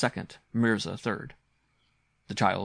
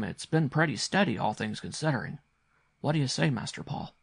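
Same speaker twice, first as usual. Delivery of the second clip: a hint of a respectful retainer; lightly voiced deferential servant; 3 semitones higher than usual. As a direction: explain the bets to the master, mildly lifted. Bassett recounts the betting history.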